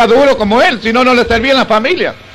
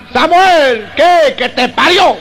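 shouting across the night; 4 semitones higher, much slower than usual. Acted. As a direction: yell it across to the enemy camp. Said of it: "gritaba el de los árabes".

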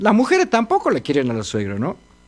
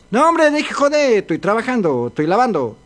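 put-on grumpy old wife; 4 semitones higher than usual. Old wife refuses husband.

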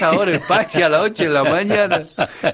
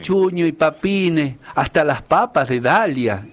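verse recital. Acted. Cacheño performs his 25 de mayo lines for the hosts, reciting verse. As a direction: recite a homemade folk verse. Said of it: "le he hecho unas líneas".

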